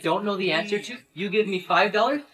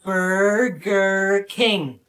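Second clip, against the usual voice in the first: drawn-out, syllable-by-syllable delivery; very slow pronunciation; much slower than usual. Acted. Asked to settle an argument, very slow pronunciation. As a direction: stretch every syllable of the name. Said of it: "pronounce where we are very slowly".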